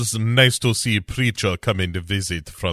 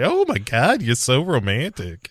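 swooning reporter; 3 semitones higher than usual. Retold or imitated. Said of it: "And she's like".

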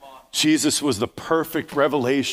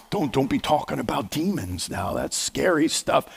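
timid objector; 3 dB quieter than usual. Acted. Voicing a fearful churchgoer's objection.

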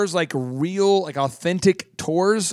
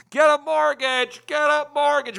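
high, slow street-hawker call; megaphone hawker; 9 semitones higher, slower than usual. Pretend. Host joking about shouting mortgages down the street, mock megaphone. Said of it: "the whole megaphone up and down the street".

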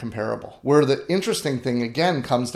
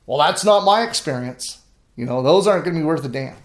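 higher-pitched mock retort of a disapproving uncle; dismissive retort; 4 semitones higher than usual. Farmer imitating his uncle rejecting his yield claim, dismissively. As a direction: brush it off bluntly, imitating a sceptical relative.

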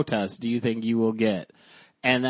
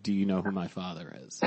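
mock entitled line; 6 semitones lower, 9 dB quieter, faster than usual. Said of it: "someone in real life to be like".

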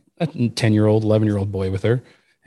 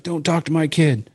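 higher-pitched mock scolding; quick, pitched-up telling-off; imitated angry mom; 5 semitones higher than usual. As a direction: mimic a protective mom cutting in. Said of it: "And she's going, going, going".

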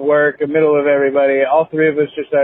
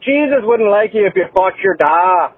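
higher, playful mock-Scottish lilt; imitated Scottish accent; 5 semitones higher than usual. Joking with the Scottish coworker, playful mock-Scottish accent. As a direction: joke along in a put-on Scottish accent. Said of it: "chopped it up".

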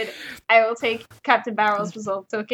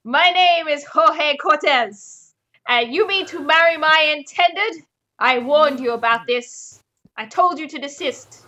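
Jorge Cortez. Acted. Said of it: "a well-dressed Spaniard with a sword out".

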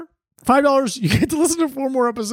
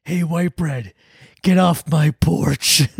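shouting at trespasser; 5 semitones lower, slower than usual. Acted. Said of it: "you cracker".

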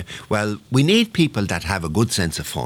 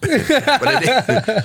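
laughing. Real, not acted. Laughing at his own joke.

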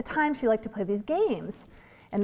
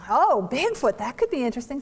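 mock enthusiasm; 3 semitones higher, 4 dB louder than usual. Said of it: "mother humoring child".

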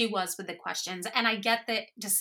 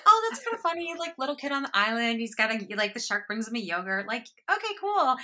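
amused, unbothered viewer; 3 semitones higher than usual. Retold or imitated. Voicing the viewer's mild amusement.

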